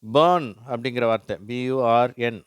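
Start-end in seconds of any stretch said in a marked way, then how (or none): 0.0-0.5 பர்ன் loud with drawn-out er; long vowel. Shown as a demonstration. Teacher showing how burn must be said, long vowel. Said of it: "அது பர்ன் அப்படின்னு சொல்லணும்".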